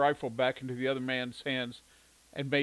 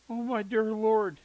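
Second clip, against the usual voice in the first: higher, slow, louder gasp of dismay; shocked exclamation; 9 semitones higher, 7 dB louder, slower than usual. A narrator's reading. Mother on the phone hearing shocking news, exclaiming. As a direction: reel from bad news. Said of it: "she exclaimed".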